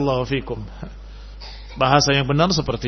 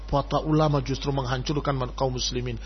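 mock wrong claim; 4 semitones lower, 7 dB quieter than usual. Shown as a demonstration.

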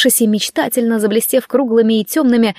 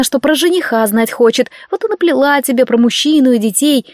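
usual speaking voice

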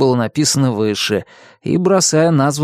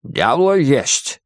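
gurgling alien voice; much slower than usual. Acted. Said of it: "пробулькала варево".

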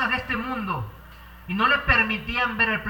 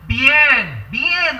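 louder, raised "Bien, bien" of approval; warm praise; 3 semitones higher, 10 dB louder than usual. Acted. The Lord praising a faithful servant, warmly. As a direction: praise like a proud master.

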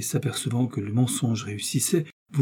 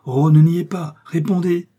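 high, louder, pressing command; insistent demand; 6 semitones higher, 7 dB louder than usual. A narrator's reading. Milady pressing the novice to confess, insistent. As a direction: press hard for an answer.

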